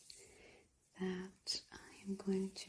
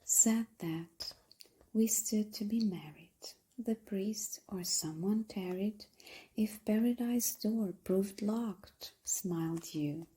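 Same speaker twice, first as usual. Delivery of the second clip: hushed, breathy poem reading with measured pauses; poetry recitation; 3 dB louder than usual. Acted.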